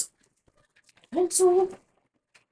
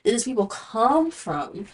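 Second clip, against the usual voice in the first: nosy. Retold or imitated. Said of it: "I be way too nosy and way too invested".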